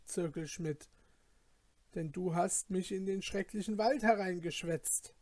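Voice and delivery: worried lad grumbling at his friend; fearful young goldsmith. Acted. Young goldsmith scolds companion in the dark forest, anxious.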